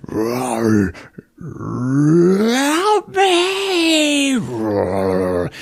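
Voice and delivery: a beast faking a dying woman's cry; monster mimicking screams. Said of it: "it can fucking mimic Cassie's dying screams".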